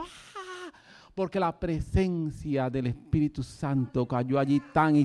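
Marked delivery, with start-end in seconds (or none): 0.0-0.7 thin, high, very quiet mock scream; scaled-down "aah" held high and soft; imitated scream. Preacher showing how he screamed in prayer, mock scream. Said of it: "Yo estoy gritando".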